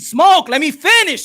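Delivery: firm, slow plea to be heard; slow insistent demand. Real, not acted. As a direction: hold the floor, drawing out let me finish. Host insists on finishing his point.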